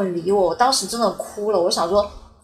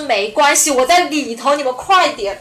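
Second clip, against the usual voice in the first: loud reply from inside; shouting back; 4 semitones higher, 5 dB louder than usual. Retold or imitated. Trapped woman shouting back to the firemen, loud and urgent. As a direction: call out urgently from behind the door.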